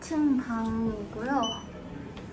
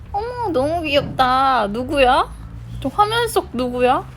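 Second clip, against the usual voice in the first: louder, delighted gushing; excited; 2 semitones higher, 6 dB louder than usual. Real, not acted. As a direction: gush over how cute it is. Excited over the screen.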